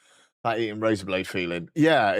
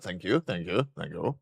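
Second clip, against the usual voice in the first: each thank you softer and lower, trailing off; fading thanks; 4 semitones lower, 7 dB quieter than usual. Real, not acted. Thanking chat for the shirt compliment, fading softer. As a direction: let the thanks fade away.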